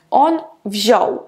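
wziął with ą as a simple O; plain "o", no nasal. Shown as a demonstration. Teacher showing the past tense, wziął with plain O. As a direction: drop the nasal in wziął, saying pure O. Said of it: "а просто як О".

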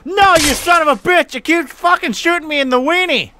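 frustrated yell at the game; real angry outburst; angry shout. Real, not acted.

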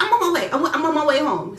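high, loud, stumbling rush; mock a frantic parent on the phone; imitated urgent mom. Acts mom's urgent reply.

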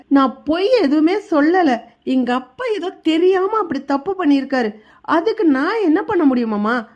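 a hint of a wronged daughter-in-law pleading; mock tearful plea. Daughter-in-law pleads with her father-in-law, lightly voiced tearful plea. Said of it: "அப்படின்னு தங்கமயில் அழுகுறாங்க".

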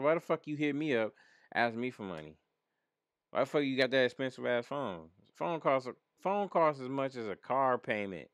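worked-up, incredulous griping; indignant. Retold or imitated. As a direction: rant in disbelief at the nerve of it. Retold complaint about money request.

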